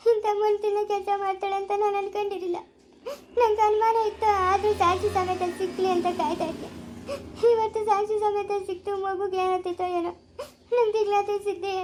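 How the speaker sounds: choked, crying lament; tearful. Acted. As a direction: grieve through tears over the babysitter. Parent lamenting the betrayal. (ಅಳುತ್ತಾ ದುಃಖ)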